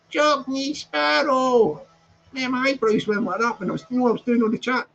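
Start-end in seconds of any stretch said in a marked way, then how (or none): 0.1-1.8 drawn-out, higher mimicry of a woman; mimicking her. Imitating how she says his name, drawn-out and higher. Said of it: "When she says my name, like".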